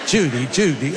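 light old film star impression; a hint of a famous actor's catchphrase voice; Cary Grant. Preacher jokes to congregation with a mock film star impression. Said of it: "I sound more like Cary Grant".

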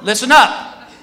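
guard addressing a whole crowd; public announcement. Acted. Guard addressing the whole security line, public announcement. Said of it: "he goes to this whole security line".

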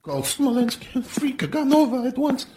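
high, loud barked command; yelled order. A narrator's reading. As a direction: shout it so he hears. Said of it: "yelled at the guard in a less sniveling voice".

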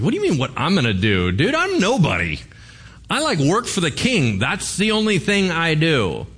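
mock-incredulous, pitch rising as it goes; baffled protest. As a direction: act out a bewildered underling protesting. Hazael protests the prophecy, acted out.

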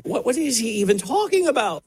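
baffled scoff. Retold or imitated. People brushing off the preacher, mock baffled. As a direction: mimic people who just don't get it. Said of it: "most people are like".

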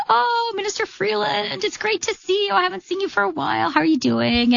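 light, high, friendly quoted voice; friendly greeting. Retold or imitated. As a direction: imitate a very nice guard greeting someone he admires. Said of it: "he was very nice".

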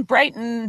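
"Brighton" with T held into N; middle variant. Shown as a demonstration. Listing ski resort variants, "Brighton" with a swallowed ending. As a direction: say "Brighton" as Bright'n, no vowel after T. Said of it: "It's either Brighton".

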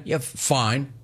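a whispered, grudging fine. Real, not acted. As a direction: give in under your breath. Grudging aside.

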